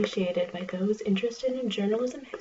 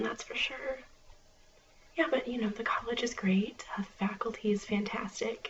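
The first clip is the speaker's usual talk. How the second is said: library whisper; 3 dB quieter than usual. Acted.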